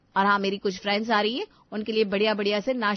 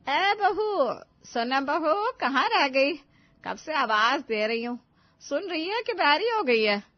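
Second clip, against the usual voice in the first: calling out; 3 semitones higher, slower than usual. Acted. Mother-in-law calling the bride.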